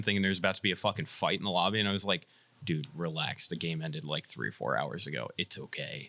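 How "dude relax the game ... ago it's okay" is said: low, soft talk-down; mock calming. Retelling telling the costumed dude to relax, low and calming. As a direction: talk him down, lower and softer. Retelling how he calmed the role-player.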